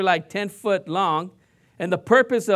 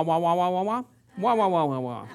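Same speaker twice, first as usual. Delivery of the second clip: cartoon teacher wah; 3 semitones lower, 5 dB quieter than usual. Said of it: "all you need to hear is wah".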